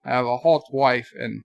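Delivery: put-on accent, low-key and halting; mock accent, trailing down in pitch and volume; Anti-tracker. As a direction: lightly imitate a streamer's accent in short, spaced bursts. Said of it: "Anti-tracker accent?".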